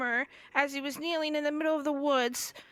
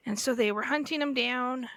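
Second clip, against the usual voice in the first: ordinary talk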